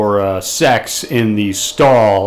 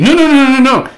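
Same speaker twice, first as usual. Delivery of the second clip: sharply higher, loud repeated no; loud protest; 10 semitones higher, 5 dB louder than usual. Real, not acted. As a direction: cut the accusation off fast. Protesting a misreading.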